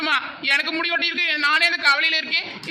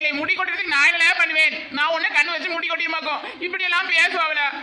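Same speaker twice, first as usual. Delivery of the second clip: hammed-up tearful whining; mock crying. Friend fakes tears over the bald jokes, mock crying. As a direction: whine it like a hurt child on the verge of tears. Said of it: "இதுக்கெல்லாம் போய் அழுவாங்களா?".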